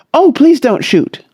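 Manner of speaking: high, scared please; frightened pleading. A narrator's reading. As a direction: plead in terror. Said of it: "she cried".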